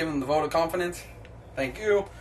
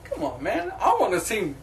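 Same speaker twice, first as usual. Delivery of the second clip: laughing complaint; 4 semitones higher than usual. Real, not acted.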